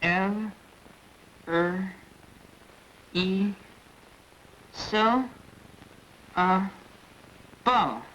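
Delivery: each syllable separated; over enunciating. Shown as a demonstration. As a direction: chop into single syllables. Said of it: "Keep trying".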